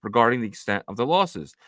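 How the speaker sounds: measured read-aloud of a report; news read. Acted.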